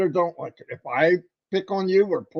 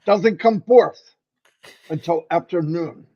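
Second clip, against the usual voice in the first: mock English accent. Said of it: "so I sound like I'm from England".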